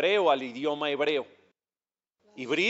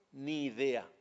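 "Ni idea" bajito y apagado, como un chico indiferente; muchacho desganado; 3 semitones lower, 7 dB quieter, slower than usual. Retold or imitated. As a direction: imita al muchacho que no sabe nada, en voz baja. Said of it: "Así me dijo". ("Ni idea" murmurado imitando al chico)

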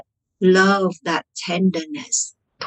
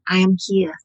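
lightly soothing self-talk; gentle reassurance. Shown as a demonstration. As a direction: speak gently to your own hurt, as to a child. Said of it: "by just gently saying".

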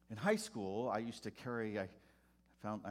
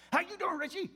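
high, loud, hearty preacher greeting; jolly pastor; 10 dB louder than usual. Retold or imitated. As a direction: boom it out like a beaming old reverend. Voicing the pastor again.

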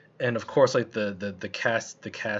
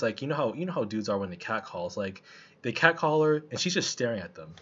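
ordinary delivery

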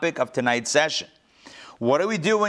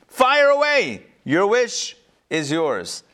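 booming governor; 5 semitones higher, slower than usual. Retold or imitated. Governor to mayor, a grand and generous boast. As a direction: play the big shot granting every wish.

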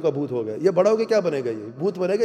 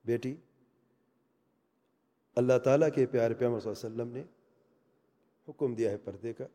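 gentle advice; 5 semitones lower, 6 dB quieter than usual. Retold or imitated. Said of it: "میں نے ایک مرتبہ اسے کہہ دیا".

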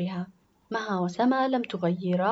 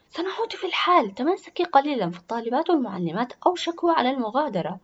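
put-on higher, louder child's voice; reasoning schoolgirl; 4 semitones higher, 5 dB louder, faster than usual. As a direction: talk her out of it, urging patience. Lora answers her sister's request.

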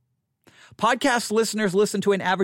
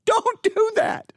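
squeaky, much higher, slowed laughing plea; 14 semitones higher, slower than usual. Real, not acted. To friends who speed up podcasts: laughing high plea. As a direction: beg them through a laugh. Pleading with sped-up listeners.

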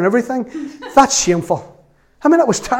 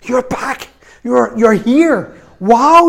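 slow, high-pitched shout, building louder; joyful retold shout; 6 semitones higher, 5 dB louder, much slower than usual. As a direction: shout it out like an overjoyed father, drawing words out. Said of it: "he's shouting at him".

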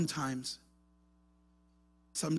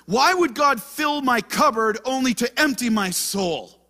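1 doubting lament; 10 semitones higher, 11 dB louder than usual. Retold or imitated. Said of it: "where you're like".

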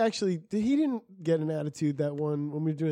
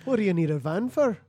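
put-on Scottish accent; 3 semitones higher, 4 dB louder than usual. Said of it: "You're Scottish".

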